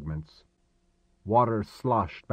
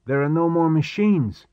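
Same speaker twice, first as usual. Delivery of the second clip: higher, louder burst of alarm; dismayed outcry, pitched up; 7 semitones higher, 6 dB louder than usual. Acted. Stern to Gordon as the machines are lost, alarmed.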